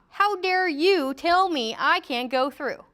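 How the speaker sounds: a hint of an irate driver demanding to pass. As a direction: play an entitled motorist scolding the flagger. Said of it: "people who are ticked off".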